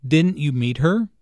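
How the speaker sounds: Didn't you meet her rising on her; a touch of surprise, rising on her; surprised negative question. Shown as a demonstration. Teacher modelling Charles's surprised negative question. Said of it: "Notice that this is a negative question".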